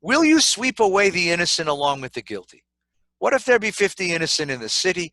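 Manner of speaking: brisk, earnest reading of a plea; scripture reading. Acted. Preacher reading Abraham's plea to the congregation, earnest. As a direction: read it as Abraham pleading with God.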